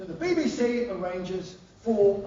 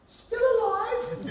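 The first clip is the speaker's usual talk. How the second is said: high, very slow, posh Queen voice; deadpan Queen; much slower than usual. Retold or imitated. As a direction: drawl it out like the Queen.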